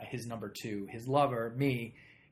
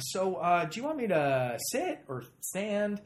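retold eager question; 8 semitones higher, 5 dB louder, slower than usual. Nervous auditioner asks humorless room.

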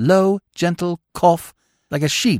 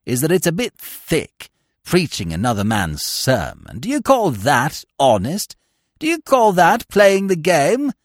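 crying out. Acted. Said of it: "he cried".

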